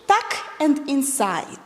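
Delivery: rhythmic movement cues; teacher cueing steps; calling the moves. Shown as a demonstration. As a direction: call each part as you dance it. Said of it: "it's going to be like this".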